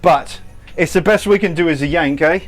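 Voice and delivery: amateur put-on London accent; American having a cheeky go at a London accent. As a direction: fake London accent, played for fun. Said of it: "this is probably a shite accent for you then".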